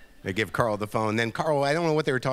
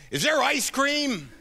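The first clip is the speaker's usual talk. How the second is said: put-on high, slow, hopeful old man; sleepy manager; slower than usual. Manager waking up and asking the room for ice cream, high and slow. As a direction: draw it out like a sweet old man wanting dessert. The speaker asks after interview.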